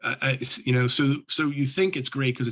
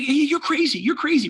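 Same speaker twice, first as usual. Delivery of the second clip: higher and louder, laughing it out; laughing disbelief; 6 dB louder than usual. Retold or imitated. Reverend laughing at his partner's joke, loud laughing retort. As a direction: laugh him off as crazy. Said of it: "he starts laughing".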